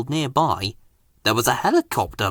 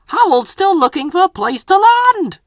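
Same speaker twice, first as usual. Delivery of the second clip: gleeful; 4 dB louder than usual. A narrator's reading. Fireman gleeful.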